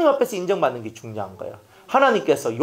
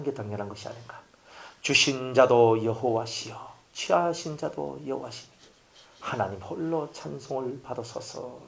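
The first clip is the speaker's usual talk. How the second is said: hushed worship in the middle of loss; quiet, reverent scripture recitation; solemn reverent confession; 3 semitones lower, 4 dB quieter than usual. Acted. Job's solemn confession quoted.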